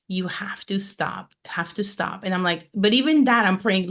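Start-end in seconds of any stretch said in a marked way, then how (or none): 0.1-2.2 hushed whisper, telling herself to stop; a woman hushing her own racing thoughts on a silent walk, in a whisper; whispered self-scolding. Retold or imitated. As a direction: whisper it to yourself, firm but soft.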